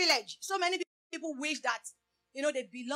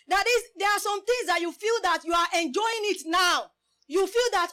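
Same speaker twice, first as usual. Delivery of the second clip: loud, higher exhortation; preaching shout; 5 semitones higher, 6 dB louder than usual. Real, not acted. Preacher warning the church, loud high preaching. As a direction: drive the warning home at full force.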